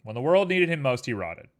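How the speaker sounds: loud booming trailer voice; dramatic narrator. Pretend. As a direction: boom it like a movie trailer. Redoes ending, louder.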